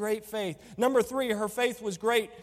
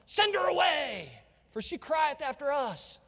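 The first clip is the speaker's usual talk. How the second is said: whiny disciples; 4 semitones higher than usual. Retold or imitated. Disciples begging Jesus to get rid of her, higher whine. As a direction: play the disciples as irritated and impatient. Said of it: "feels like that's what it would have sounded like".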